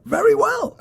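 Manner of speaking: very high, laughing smug answer; laughing reply. Retold or imitated. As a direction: chirp it through a laugh. Own cocky reply in story.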